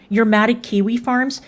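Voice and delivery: ordinary talk, nothing marked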